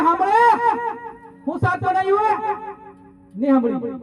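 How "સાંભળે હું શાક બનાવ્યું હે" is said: higher-pitched call across a distance; mock calling out. Husband tests deaf wife from afar, half-shouted higher call. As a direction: call out as if testing someone's hearing, lightly acted. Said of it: "બૂમ મારી, એટલે કે".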